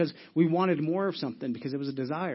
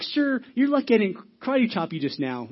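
higher-pitched indignant warning; mock threat; 5 semitones higher than usual. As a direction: play up a comic threat to a stranger. Acted confrontation in dream.

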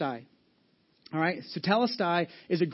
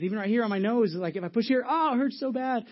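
whiny patient; 6 semitones higher than usual. Retold or imitated. Patient complaining to doctor.

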